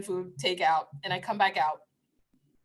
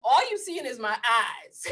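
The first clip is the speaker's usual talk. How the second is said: higher, quick teasing scold; higher playful callout; sassy scolding; 5 semitones higher than usual. Retold or imitated. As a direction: call him out, sassy. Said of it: "I was like".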